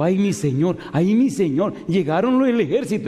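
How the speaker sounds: hammed-up fearful cry to his master; frightened servant. Frightened servant voiced in story. (siervo asustado, súplica exagerada)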